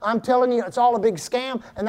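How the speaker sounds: a hint of a scheming tempter; enemy's voice. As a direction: coax like a deceiver spinning a scam. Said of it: "that's exactly how the enemy talks".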